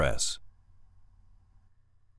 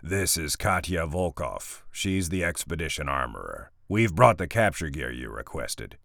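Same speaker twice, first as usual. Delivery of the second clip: big man rumble; 3 semitones lower than usual. Acted. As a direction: speak like a hulking mercenary. Brick's voice held.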